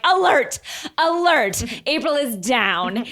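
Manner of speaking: mock alarm. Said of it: "She's like".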